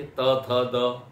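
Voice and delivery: त, थ, द said slowly as if without teeth; toothless demo. Shown as a demonstration. Teacher demonstrating speaking त थ द without teeth. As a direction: say त, थ, द slowly with the tongue not touching teeth. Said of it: "बिना दांत के बोल के देखिए".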